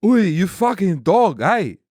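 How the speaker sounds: brash Aussie Wog heckle; Wog accent. Shown as a demonstration. Australian guest showing off the Wog accent. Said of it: "the Wog accent".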